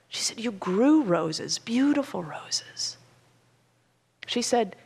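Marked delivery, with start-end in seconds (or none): 0.4-3.0 slow, lingering reminiscence; slower and softer. Retold or imitated. Daughter reminding mother of her roses, slow and soft. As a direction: linger gently on each word. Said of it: "began to speak more slowly".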